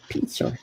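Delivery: "Pizza" said as "pizzer" with an r at the end; "Pizza" in a New York accent, ending in "er". Shown as a demonstration. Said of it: "that was my New York accent".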